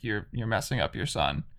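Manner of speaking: mildly stern mimicked scolding. Retelling the witch scolding Kratos about his son, mildly stern. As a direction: drop into a restrained imitation of a telling-off. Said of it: "very sternly is like".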